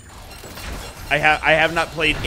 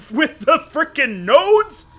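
laughing; 9 semitones higher, 4 dB louder, slower than usual. Real, not acted. Laughing at his own joke.

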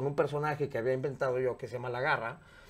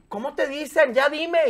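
camp gay voice; 10 semitones higher, 7 dB louder, slower than usual. Retold or imitated. Gay man presses him on air.

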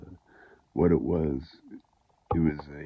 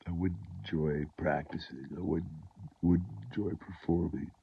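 stuffy nose. Real, not acted. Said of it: "I'm a little stuffed up".

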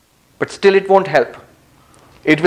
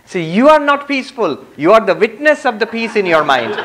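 mild scolding; 5 semitones higher than usual. Retold or imitated. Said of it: "the Swami scolded him".

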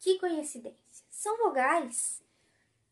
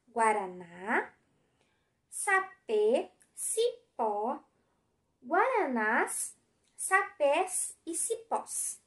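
slow word reading; 2 semitones lower, much slower than usual. Shown as a demonstration. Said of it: "Leia as palavras".

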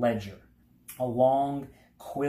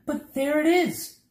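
high, loud burst of discovery; excited cry; 6 dB louder than usual. A narrator's reading. Milo spotting the castle, high excited cry. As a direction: cry out on first seeing the goal. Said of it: "cried Milo".

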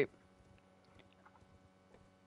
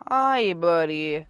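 drawn out, louder, coaxing hello; slow coaxing greeting; 3 semitones higher, 6 dB louder, much slower than usual. Real, not acted. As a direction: talk to it like a wary dog. Greeting a big bear.

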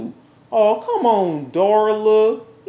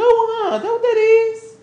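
pitched up and louder, accusing; angry accusation; 7 semitones higher, 3 dB louder than usual. Acted. Woman confronting her cheating man, angry and pitched up. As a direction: throw the question at him like an accusation.

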